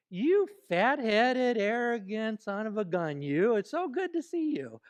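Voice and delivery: insults said with a cheery smile; sugar-coat a nasty insult with a bright voice; mock-friendly greeting hiding an insult; sweetly delivered insult. Shown as a demonstration. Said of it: "do it with a nice inflection".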